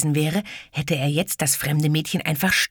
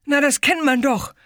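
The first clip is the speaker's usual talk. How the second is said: self-important; 12 semitones higher, 5 dB louder than usual. Acted. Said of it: "rief der Junge, wichtige Miene".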